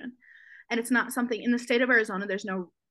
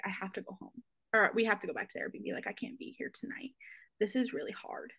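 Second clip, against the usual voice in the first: whispered, breaking plea, much softer; retold whispered plea; 7 dB quieter than usual. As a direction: breathe it out, barely voiced, close to tears.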